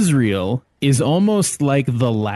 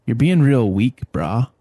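California surfer voice. Pretend. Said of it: "California surfer voice".

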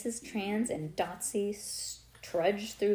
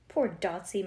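ordinary delivery, nothing marked

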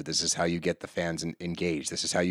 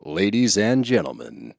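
slow booming announcer intro; big promo announcer; 5 dB louder, slower than usual. Acted. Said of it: "stop with the voice".

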